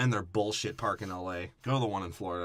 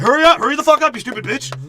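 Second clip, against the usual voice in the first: much louder and higher angry yell; ride worker yelling; 13 dB louder than usual. Retold or imitated. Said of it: "they're like".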